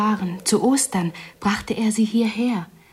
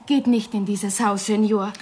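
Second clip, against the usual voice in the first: restrained, earnest warning. Acted. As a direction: warn the visitor off, without raising the voice. Villager warns visitor off the house.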